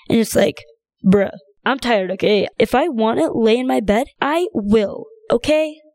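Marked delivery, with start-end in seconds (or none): 1.0-5.8 harsh retort. Retold or imitated. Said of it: "Maybe that's a little too harsh".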